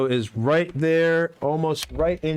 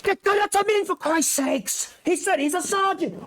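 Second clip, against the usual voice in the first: angry guard. Acted. Guard keeps scolding.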